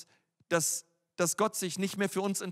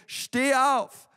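higher and louder full-voiced command; powerful command; 5 semitones higher, 5 dB louder than usual. Shown as a demonstration. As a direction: shout it like raising the dead. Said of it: "Hey, sag mal gerade".

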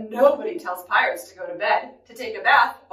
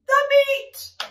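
high rowdy crew cry; roaring; 14 semitones higher, 4 dB louder than usual. Acted. Reader leads listeners as hungry pirates, roaring. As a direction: roar it for listeners to copy. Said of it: "we all roared".

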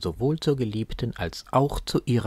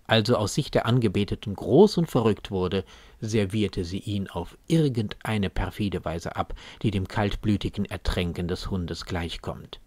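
ordinary talk, nothing marked

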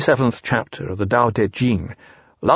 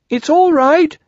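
high, loud happy squeak; excited squeaked shout; Piglet squeaking; 6 dB louder, slower than usual. A narrator's reading. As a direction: call out excitedly in a tiny animal voice. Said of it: "squeak a last message".

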